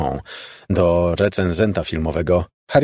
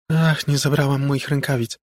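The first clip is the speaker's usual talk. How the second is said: unperturbed ghost voice; 7 semitones higher than usual. Acted. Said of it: "kontynuował niezrażony tym wcale głos".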